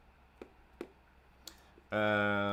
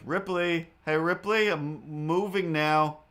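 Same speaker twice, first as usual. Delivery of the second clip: high coaxing pet-talk, raised and louder; calling the cat; 5 semitones higher, 4 dB louder than usual. Retold or imitated. Owner calling the hidden cat Ripley, high coaxing voice. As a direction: sweet-talk a hiding cat, higher and louder.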